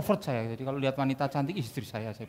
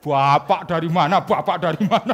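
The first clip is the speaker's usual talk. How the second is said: put-on child's voice; 3 semitones higher, 12 dB louder than usual. A child at the shelter asks him, laughing. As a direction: play the small child asking.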